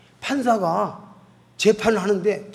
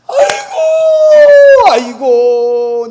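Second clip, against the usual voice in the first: high, loud, drawn-out 아이고; a long cry of overwhelmed relief; 14 dB louder, much slower than usual. Retold or imitated. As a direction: wail it out in sudden realization. Man's cry of realization.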